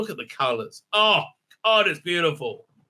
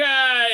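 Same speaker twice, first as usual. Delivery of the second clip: mild mock scream; 6 semitones higher, 4 dB louder than usual. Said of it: "she runs screaming".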